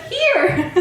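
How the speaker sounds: very high, laughing, gleeful; laughing reveal. Retold or imitated. Answering Bryony that the flat is right here, laughing high. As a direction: squeal it out with a laugh.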